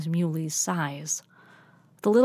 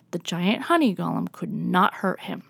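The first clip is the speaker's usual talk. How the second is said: ordinary delivery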